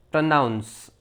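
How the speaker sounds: પ્રનાઉન્સ with a short weak first vowel; correct pronunciation. Shown as a demonstration. Teacher showing learners the word, correct pronunciation. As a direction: say પ્રનાઉન્સ as "pruh-NOUNS". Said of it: "પરંતુ પ્રનાઉન્સ".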